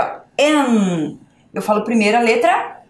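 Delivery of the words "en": EN held out on its own; sounded-out syllable. Shown as a demonstration. Teacher showing the sound heard first, sounded out. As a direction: sound out EN, stretching the nasal ending. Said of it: "Olha o som que eu falo primeiro".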